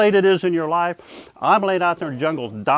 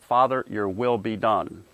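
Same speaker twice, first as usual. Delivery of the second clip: slow, lower-pitched submission in prayer; religious speak; 4 semitones lower, 4 dB quieter, slower than usual. Retold or imitated. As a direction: surrender humbly, unhurried. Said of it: "I don't usually talk like this".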